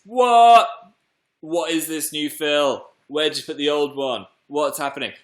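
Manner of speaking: high, loud mock-astonished outburst; playfully aghast viewer; mock shock. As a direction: act baffled by the big change. Voices viewers shocked at his breakfast.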